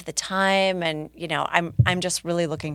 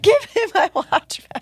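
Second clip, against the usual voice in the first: much higher, louder ghostly shriek; 13 semitones higher, 7 dB louder than usual. Pretend. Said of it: "like from the story".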